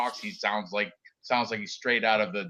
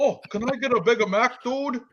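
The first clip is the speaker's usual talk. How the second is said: much higher, louder surfer-dude voice; white guy impression; 14 semitones higher, 3 dB louder than usual. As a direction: ham up a clueless white dude ordering. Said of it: "that's my white guy impression".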